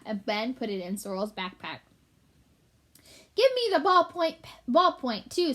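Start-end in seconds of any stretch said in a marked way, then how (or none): 3.3-5.5 high, loud rat squeak; squeaky. Acted. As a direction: squeak out a greedy demand. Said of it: "squeaked the white rat".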